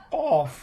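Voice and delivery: "কফ" with the tongue root against the palate; back-of-tongue articulation. Shown as a demonstration. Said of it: "উপরের তালুর সঙ্গে লাগাইয়া". (জিহ্বার গোড়া তালুতে লাগিয়ে "কফ")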